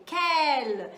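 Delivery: loud, drawn-out "Quel", said "kel"; model pronunciation. Shown as a demonstration. Teacher asking learners to repeat along, loud clear model "Quel". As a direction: stretch "Quel" clearly for repetition. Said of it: "Repete aí comigo".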